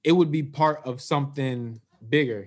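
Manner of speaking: muffled, like through a wall; muffled audio. Real, not acted. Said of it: "You sound muffled".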